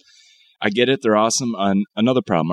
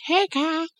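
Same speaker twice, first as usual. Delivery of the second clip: sudden squeaky high-pitched call; mock monster greeting, way up high; pterodactyl voice; 3 dB quieter than usual. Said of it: "They're gonna be like".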